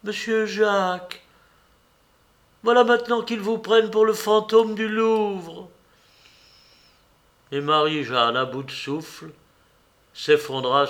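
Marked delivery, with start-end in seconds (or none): 0.0-5.7 voix aiguë de vieille cuisinière paniquée; débite-le d'un trait, plus haut; cuisinière affolée. A narrator's reading. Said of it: "tout d'un trait, elle lâcha". (Marie-Jeanne annonce la nouvelle à Jacques, très aiguë)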